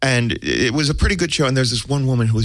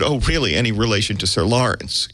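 knowing, smarmy question; mock-innocent smarmy retelling. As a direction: put on a touch of smarm. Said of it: "to be smarmy enough".

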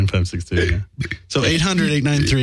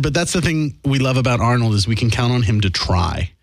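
Arnold voice. Pretend. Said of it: "in the voice that I can't get out".

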